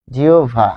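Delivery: জিওভা as one falling "jiobha"; joined pronunciation. Shown as a demonstration. Teacher repeats the word for learners, joined pronunciation. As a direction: say জিওভা without a break. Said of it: "যেহেতু থেমে যাচ্ছি".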